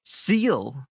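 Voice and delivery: slow, stammering, rising "seal?"; stammering question. Retold or imitated. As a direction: stumble nervously into the word. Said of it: "he's like".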